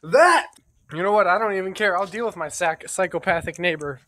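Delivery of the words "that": mock panic. Panicked refusal in a horror scene.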